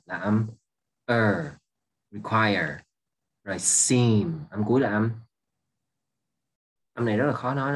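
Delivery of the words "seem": "seem" slowly, holding the closing M; final M sound. Shown as a demonstration. Teacher showing the hard-to-say âm M, held final M in "seem". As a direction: draw out "seem" onto a hummed M. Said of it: "nó là âm M".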